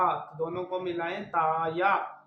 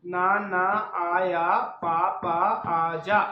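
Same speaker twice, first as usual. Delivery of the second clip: louder, deliberate syllable-by-syllable reading; spelling drill; 4 dB louder, slower than usual. Shown as a demonstration. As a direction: call out each letter clearly for a child to repeat. Teacher reads built sentence aloud.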